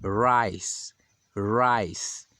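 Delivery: rice with the English R. Shown as a demonstration. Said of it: "Outro exemplo que temos é a palavra". (rice com R inglês)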